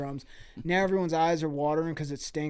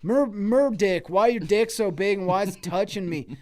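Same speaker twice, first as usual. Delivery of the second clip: annoyed character voice; 4 semitones higher, 5 dB louder than usual. Acted. Character complains to Merdick.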